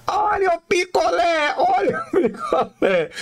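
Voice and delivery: high, thin singsong call of a popsicle seller; thin vendor call voice. Retold or imitated. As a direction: call out popsicles like a little street kid. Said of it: "Ele tinha uma vozinha fininha assim". (vozinha fininha de vendedor de picolé)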